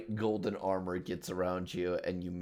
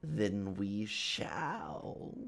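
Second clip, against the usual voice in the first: Hat Man; 4 dB quieter, much slower than usual. Acted. Hat Man answers the player's challenge.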